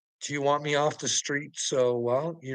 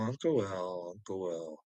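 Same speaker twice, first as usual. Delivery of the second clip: ominous low; 8 semitones lower, 11 dB quieter than usual. Real, not acted. Naming Uncle Will in a lower, much softer threat.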